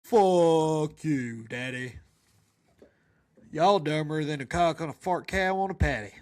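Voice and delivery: put-on a baby in a grown man's voice; mismatched baby voice. Baby cursing at his father in a mismatched voice. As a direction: toddler mouthing off to daddy. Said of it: "very not so matching voice".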